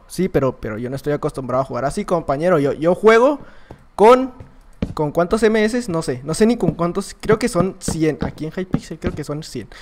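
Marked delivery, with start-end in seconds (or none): none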